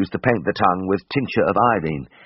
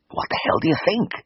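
irritable rasp, raised pitch; a cross, scratchy retort; rasped crossly; 11 semitones higher than usual. A narrator's reading. Patient snapping back at the anaesthetist, cross rasp. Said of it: "I rasped crossly".

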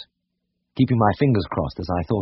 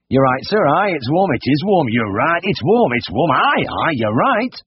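fervent, higher volley of agreement; immense conviction; 7 semitones higher, 3 dB louder than usual. A narrator's reading. Brothers agree with great conviction, as if it were a discovery. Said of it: "delivered with immense conviction".

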